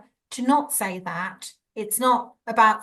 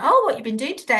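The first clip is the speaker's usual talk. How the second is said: lightly lilting, higher pitched small-talk question; chatty mock greeting, pitch lifted; casual friendly question; 4 semitones higher, 4 dB louder, much faster than usual. Carer making small talk with someone with dementia, casual friendly question.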